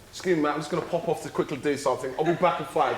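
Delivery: brisk, polite worker-on-site tone, lightly voiced; mock-professional quick excuse to colleagues. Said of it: "that's his work voice".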